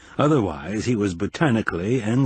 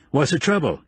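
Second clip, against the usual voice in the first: raised call up high; 5 semitones higher than usual. Acted. Man running toward her calling out, raised. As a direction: call across the trail, raised. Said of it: "he called out as he ran toward her".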